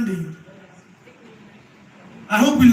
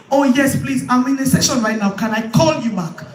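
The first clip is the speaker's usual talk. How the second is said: dodging a caller. Shown as a demonstration. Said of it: "Drop the call".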